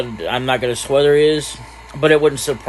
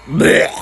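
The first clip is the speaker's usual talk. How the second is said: loud, short blech; disgusted blech; 5 semitones higher, 6 dB louder than usual. Acted. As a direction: spit out a throaty noise of disgust. Disgusted break in boy's voice.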